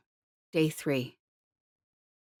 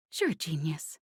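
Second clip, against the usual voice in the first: whispered sarcasm; 3 dB quieter than usual. A narrator's reading. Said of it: "she tapped out".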